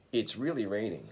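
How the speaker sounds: It's really raining said clearly for students to copy; model sentence. Shown as a demonstration. Teacher modelling the phrase for repetition, clear model. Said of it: "please listen and repeat after me".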